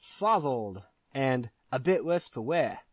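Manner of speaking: put-on a light, slow British accent; a hint of a British accent. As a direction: drawl it like a tipsy British pub man. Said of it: "that was my British accent".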